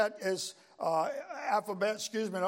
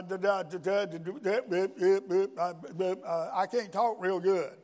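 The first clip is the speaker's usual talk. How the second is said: mock stammer; slower than usual. Moses stammers before the Lord.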